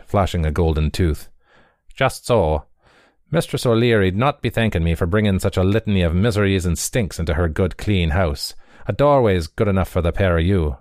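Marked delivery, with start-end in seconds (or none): 1.9-10.8 quick, smug dismissive patter; smug runner. Acted. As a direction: brush them off with a grin. Runner turns them away.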